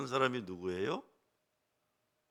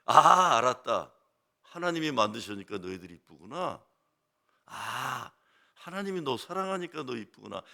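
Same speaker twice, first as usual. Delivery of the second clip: put-on fussing with children; 4 dB louder than usual. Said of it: "호들갑을 떨죠".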